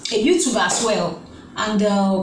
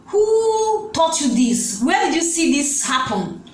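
scandalised questioning; 5 semitones higher than usual. Retold or imitated. Acts out adult questioning the children.

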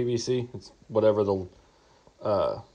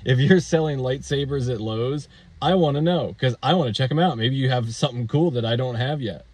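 mock fascination. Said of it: "I'm fascinated. You have my attention".

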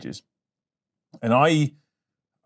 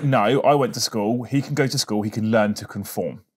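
put-on stubborn old-fashioned dad. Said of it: "It was very much my attitude".

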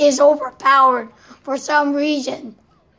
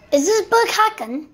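higher, put-on British accent; 6 semitones higher than usual. Gamer trying an accent on teammate, British accent. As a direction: ask it in your best mock-British accent. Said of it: "best British accent".

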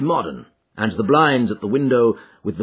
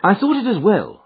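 higher-pitched detective character voice; composed, raised-pitch sleuth; Holmes; 11 semitones higher, 5 dB louder than usual. A narrator's reading. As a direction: confide the reasoning to a companion. Holmes explains his ruse.

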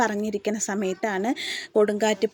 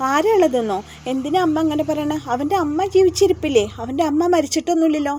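higher, louder indignant questions; retold indignation, raised and loud; indignant protest; 5 semitones higher, 4 dB louder than usual. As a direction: push back hard against her mother's fear. Kalyani protests to her mother.

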